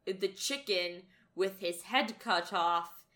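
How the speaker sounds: lightly voiced cryptic boss, drawing the words out; riddle-speaking boss. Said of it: "speaks in riddles".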